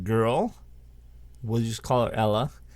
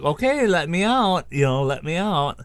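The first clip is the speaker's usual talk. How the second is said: mock panic; 5 semitones higher, 4 dB louder than usual. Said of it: "And then she's panicking".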